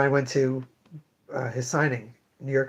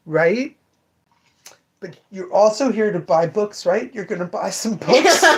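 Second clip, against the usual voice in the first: imitating her sales pitch; 4 semitones higher, slower than usual. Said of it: "I'm always like".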